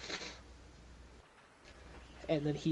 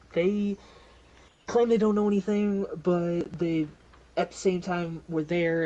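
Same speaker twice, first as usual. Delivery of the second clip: raised, higher voice of an irritated detective; yelling; 4 semitones higher, 6 dB louder than usual. Acted. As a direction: yell your complaint at a colleague. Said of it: "like, yelling at him".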